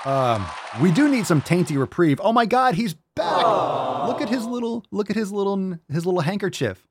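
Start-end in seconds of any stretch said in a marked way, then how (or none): 2.2-6.9 high-pitched delighted cooing. Real, not acted. Cooing at his pet, excited and high. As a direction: squeal over the little pet.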